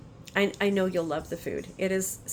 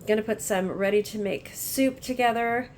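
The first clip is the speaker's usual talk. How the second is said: sniffling with a cold; sniffle. Real, not acted. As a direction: talk through a stuffy, sniffly cold. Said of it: "please excuse the sniffling".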